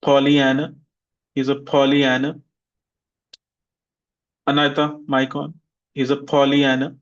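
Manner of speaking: Pollyanna with stress on -an-, rising; teacher drills noun form. Shown as a demonstration. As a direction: model Pollyanna clearly. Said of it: "repeat after me".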